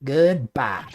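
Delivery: nosy Southern gossip voice; Southern reporter voice. Acted.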